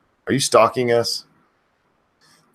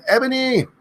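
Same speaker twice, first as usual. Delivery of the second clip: high piercing yell; screamed name. Acted. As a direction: scream it at the top of your lungs. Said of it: "I end up screaming too much".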